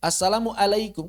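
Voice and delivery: "Assalamualaikum" with a plain vowel at "alaikum"; ain read as hamzah. Retold or imitated. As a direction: imitate lax "Assalamualaikum" without throat ain. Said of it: "Kok alaikum?".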